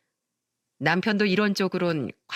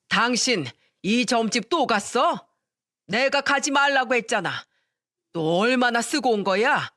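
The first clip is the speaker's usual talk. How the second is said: 꾸짖는 시아버지; 3 semitones higher than usual. Acted. 시부가 아내를 꾸짖음.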